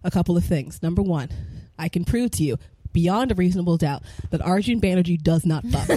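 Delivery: mock lawyer. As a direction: play a pompous trial lawyer. Mock courtroom closing statement.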